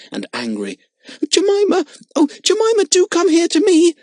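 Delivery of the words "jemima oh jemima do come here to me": high, louder pleading cry; sobbing. A narrator's reading. Girl sobbing for her monkey in the tiger cage. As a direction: beg the monkey to come to you. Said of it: "sobbed poor Lotta".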